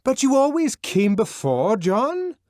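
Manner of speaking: high, loud coaxing yell; coaxing shout through a door; persuasive shout. A narrator's reading. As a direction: persuade at the top of your voice. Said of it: "at the top of one's voice".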